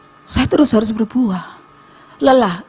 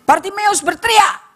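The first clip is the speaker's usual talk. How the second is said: high, emphatic announcement; heightened storytelling call; rousing preaching; 12 semitones higher than usual. Real, not acted. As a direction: raise the pitch sharply to build drama. Preacher builds to the cry.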